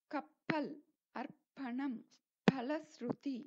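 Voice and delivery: கப்பல், அர்ப்பணம், பலஸ்ருதி with breathy ph; aspirated p. Shown as a demonstration. Teacher giving examples, கப்பல் and அர்ப்பணம் with ph. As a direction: puff air on p in கப்பல், பலஸ்ருதி. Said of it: "அது போல உச்சரிக்க".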